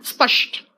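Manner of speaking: स्पष्ट breathed out with a sh-like ष, spəʃʈ; whispered demo. Shown as a demonstration. Teacher whispers the word to show where ष comes from. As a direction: whisper स्पष्ट, drawing ष from inside. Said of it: "वो अंदर से निकलता है ना".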